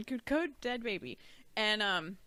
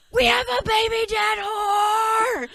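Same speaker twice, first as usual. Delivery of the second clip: put-on high, loud, drawn-out kid yell; slow, full-voiced mock screaming; imitated child's scream; 11 semitones higher, 12 dB louder, slower than usual. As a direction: scream it like a little kid spreading big news. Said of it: "Screaming it".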